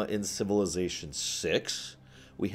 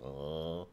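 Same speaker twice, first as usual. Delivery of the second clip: sleepy groan; 3 semitones lower, 12 dB quieter than usual. Retold or imitated. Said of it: "I'm just in bed like".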